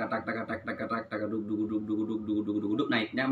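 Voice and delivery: chanting drum strokes tak and duk in rhythm; rhythmic spoken drum beats, steady and even; vocal drum syllables. Shown as a demonstration. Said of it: "Kalau tadi tak".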